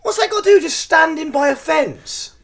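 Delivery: very high, loud baffled outburst; loud disbelief. Real, not acted. Podcaster baffled by a photo, incredulous shout. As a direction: exclaim in comic outrage. Repeats his baffled question.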